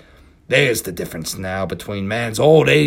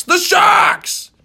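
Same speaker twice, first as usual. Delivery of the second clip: cried; 10 dB louder than usual. Acted. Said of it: "cried a voice".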